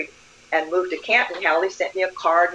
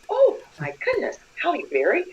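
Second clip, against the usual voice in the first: much higher, starstruck gasp; starstruck surprise; 10 semitones higher than usual. Retold or imitated. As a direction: recognize a star and squeal it out. Recognizing famous actress.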